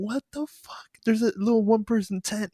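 high-pitched mock disbelief; incredulous. Retelling own baffled reaction to tent.

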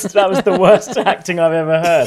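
laughing loudly while talking. Real, not acted. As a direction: crack up laughing mid-sentence.

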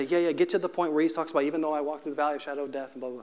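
fast, dismissive rattle that fades out; impatient skimming. Retold or imitated. Christians brushing past the psalm, fast and dismissive. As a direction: rush through it like it bores you. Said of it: "We say".

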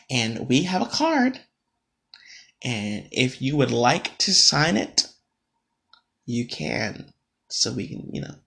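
soft, slow, tentative mock request; meek hesitant voice. Coworker timidly asks him to sign the card, softly imitated. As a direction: ask gently, as if afraid of the answer.

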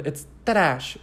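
mock-European trash, stretched to ta-RASH; attempted foreign accent. Shown as a demonstration. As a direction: try trash in a vague French or Italian accent. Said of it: "I'm trying to say it".

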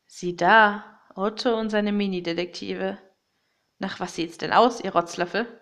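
a hint of a sneering villain; lightly voiced villain. (leicht angedeuteter Bösewicht)

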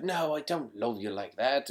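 badly faked British accent, understated; lightly imitated British accent, done badly; terrible mock British accent. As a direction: attempt a British accent and miss. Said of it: "that's a terrible accent".

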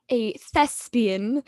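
slow, savoured thespian; thespian savoured slowly. Real, not acted. Podcaster savouring a fancy word to cohosts, slow and proud. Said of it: "just use the word thespian".

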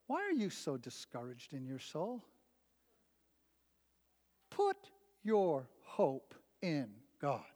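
a calm, deep voice from above; voice of the Lord. Retold or imitated. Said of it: "Lord says".

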